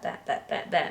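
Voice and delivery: quick breathless chuckling repeats of that; rhythmic laughing beats. Shown as a demonstration. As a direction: tap out the rhythm through a laugh. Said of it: "it goes like that".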